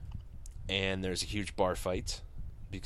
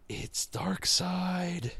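dramatic reveal; 9 semitones higher, much slower than usual. Acted. Dramatic reveal after gasp.

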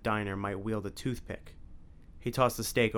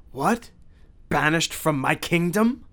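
an affronted Count, drawn out and louder; Dracula voice; 6 semitones higher, 7 dB louder, slower than usual. A narrator's reading.

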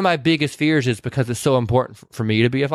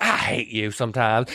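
slow, lower mock resentment; retold grudging retort; 5 semitones lower than usual. Retelling her after falling off the bench, slow grudging retort. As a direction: grumble it slowly, pitched down.

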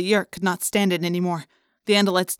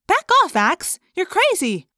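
loud, high angry snap; heated, high-pitched outburst; snapping; 10 semitones higher, 5 dB louder than usual. A narrator's reading. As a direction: warn them off sharply, loud and high. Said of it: "Rachel snapped".

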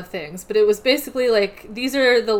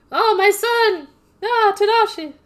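high, loud mock wail of a mother; 12 semitones higher, 4 dB louder than usual. Mother at the door, hammed-up wail for her son. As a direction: cry out for your son, hammed up.

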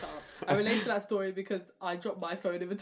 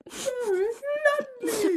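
even higher, louder fan yell; imitating fists of fury; 6 dB louder, slower than usual. Retelling Orla punching a friend, a louder, higher ecstatic yell. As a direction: scream the name like a victory punch. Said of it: "like, fists of fury".

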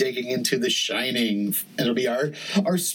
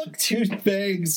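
laughing; 8 semitones higher, much slower than usual. Real, not acted. Laughs repeating the phrase.

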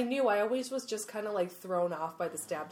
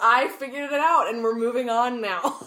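raised-voice comic insistence; emphatic refusal; 3 semitones higher, 10 dB louder than usual. Real, not acted. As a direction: shut it down loudly and firmly. Playfully refuses to redo the acronym.

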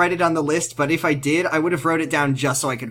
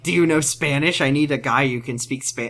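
creep voice. Retold or imitated. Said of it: "I don't know why you said that in creep voice still".

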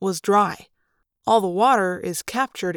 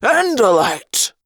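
alien bellow; 3 semitones higher, 7 dB louder, much slower than usual. Acted. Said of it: "a Hork-Bajir voice bellowed".

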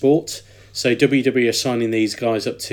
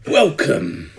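lightly voiced Triple H; 3 semitones higher than usual. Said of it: "terrible Triple H impression".

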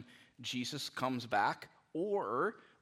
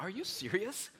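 higher, hurried, mock-annoyed nagging; a hint of a fed-up parent hurrying the kid; exasperated parent; 8 semitones higher, 3 dB louder than usual. Parent back after five minutes, kid still asleep, mildly exasperated. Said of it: "I'm like".

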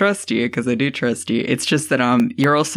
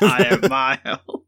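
dropping voice deep. Shown as a demonstration. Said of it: "I will say it in a deeper voice".

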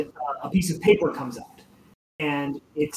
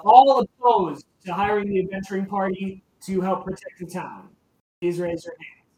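louder, higher formal call; calling a vote; 4 semitones higher, 4 dB louder than usual. Acted. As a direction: address the whole hall for a vote. Vasha calls vote.

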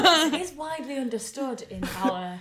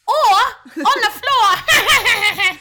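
put-on childlike voice; 11 semitones higher, 14 dB louder, much slower than usual. Childlike repeat adds a joke.

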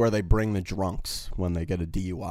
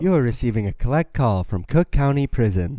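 recorded prison call voice; 4 semitones higher, 3 dB louder than usual. Pretend. Imitating a prison collect-call recording.

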